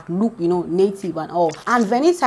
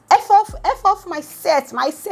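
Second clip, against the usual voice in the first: angry outburst; 11 semitones higher than usual. Retold or imitated. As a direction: throw him off the set. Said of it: "Pere's like".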